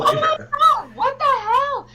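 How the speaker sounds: laughing disbelief. Real, not acted. To friends over the candy mixup, laughing out loud. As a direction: squeal it through real laughter.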